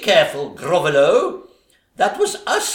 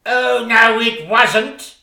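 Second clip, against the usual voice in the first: panto denial; 4 semitones higher, 6 dB louder than usual. Acted.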